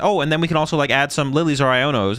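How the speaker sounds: excited planning. Retold or imitated. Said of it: "I was like".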